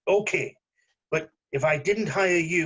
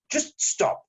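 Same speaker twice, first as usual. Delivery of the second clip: hushed stop. Acted. Tense standoff, cutting the other off.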